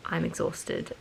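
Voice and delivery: usual speaking voice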